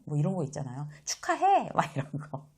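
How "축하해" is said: high, bright-loud cheer; cheerful congratulations. Shown as a demonstration. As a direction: sing out the congratulations. (높은 목소리로 축하)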